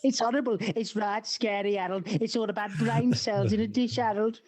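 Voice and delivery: put-on high, wheedling old-man Cockney voice. Old codger telling Harold a scary story, wheedling. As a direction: tease him like a cheeky old codger. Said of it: "bang on impressions".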